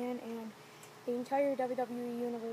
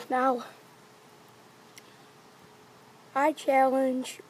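in ice cold water; 2 semitones higher, 9 dB louder, much slower than usual. Real, not acted. Soaked, trying to speak.

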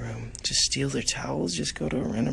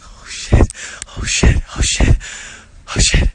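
shouting; 12 dB louder than usual. Real, not acted. Panicked shouts, repeated.

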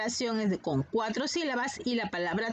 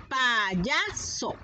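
"Payaso" in three beats, pa, ya, so; syllable by syllable. Shown as a demonstration. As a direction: separate the syllables of "Payaso" slightly. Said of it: "Tiene tres sílabas".

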